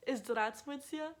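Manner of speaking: halting attempt at Здравствуйте with a learner's accent; Здравствуйте said slowly, its cluster clumsily broken up; badly pronounced Russian. Shown as a demonstration. Showing followers her hello, badly pronounced Здравствуйте. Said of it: "I said that really bad".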